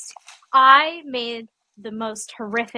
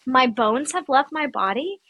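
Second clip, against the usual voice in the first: stoned dread; 3 semitones higher, slower than usual. Retold or imitated. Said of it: "And I'm like".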